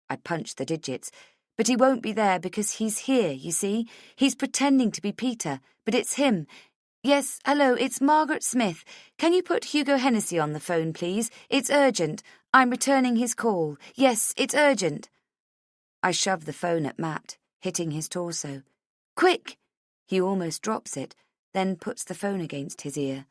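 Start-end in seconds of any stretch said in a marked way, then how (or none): 1.6-15.1 high, loud, agitated; frantic urgency. A narrator's reading. Frantic explanation, urgent phone call. 19.2-19.6 high, loud burst; urgent command. A narrator's reading. Urgent command to take phone.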